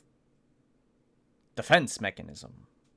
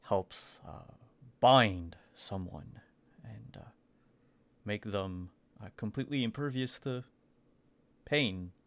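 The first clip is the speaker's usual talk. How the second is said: discreet Aiden. Acted. Aiden's discreet offer to Atson.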